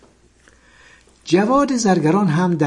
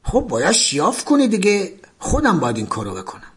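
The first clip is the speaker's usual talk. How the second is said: higher, fast, jeering colonel; mocking with an ugly laugh; 4 semitones higher than usual. Colonel mocks the sick prisoner, jeering. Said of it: "با خندهٔ بدی با صدای بلند گفت".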